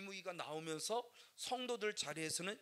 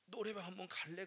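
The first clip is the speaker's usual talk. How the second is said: soft, low, worn-out father; a desperate father asking his daughter to go singing; weary plea; 4 semitones lower, 5 dB quieter than usual. Retold or imitated. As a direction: plead quietly with your daughter.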